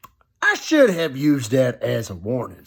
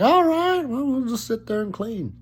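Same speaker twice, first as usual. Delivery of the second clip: resigned self-quote; 12 semitones higher than usual. Retold or imitated. Self-quote deciding to just clean.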